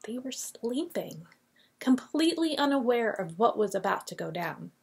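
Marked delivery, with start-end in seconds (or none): 0.1-1.3 hushed whisper, as if not to wake them. Acted. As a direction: whisper it softly like sleepers are near. Story of disciples asleep.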